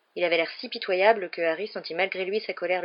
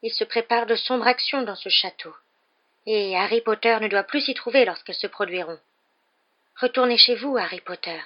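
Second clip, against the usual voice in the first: higher elf voice, urgent warning; pleading elf, pitched up; alarmed house-elf; 4 semitones higher, 4 dB louder than usual. A narrator's reading. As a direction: warn urgently as a frightened elf.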